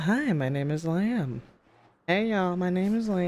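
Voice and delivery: lightly voiced character introduction; drawn-out greeting in a hint of character; Lamb. Shown as a demonstration. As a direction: try out a slightly different speaking voice. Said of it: "This is not how I talk as Lamb".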